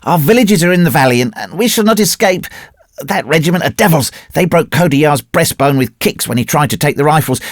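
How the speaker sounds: high-pitched, alarmed plea; crying out urgently. A narrator's reading. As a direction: warn the others urgently, pitched well up. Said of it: "Another man joined the conference, crying".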